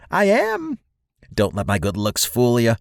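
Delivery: squeaky little squirrel creature, very high; high-pitched voice. Acted. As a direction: introduce yourself in a piping, high voice with soaring word endings. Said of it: "in a high-pitched voice".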